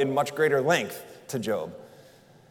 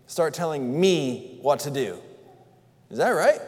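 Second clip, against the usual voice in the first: incredulous God; 3 semitones higher, 3 dB louder than usual. Acted. Preacher voicing God as incredulous and a little indignant. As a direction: act out God's disbelief at his creatures. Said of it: "Can you almost hear God's tone of voice?".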